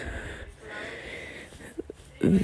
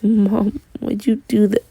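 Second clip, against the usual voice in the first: higher-pitched, lightly acted tearful child; mock crying; 5 semitones higher than usual. A child asking mom why she did it, mildly mock-tearful. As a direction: imitate a kid starting to cry, without full sobs. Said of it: "like, starts crying".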